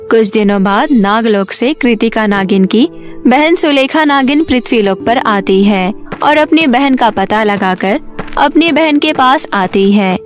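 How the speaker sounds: usual speaking voice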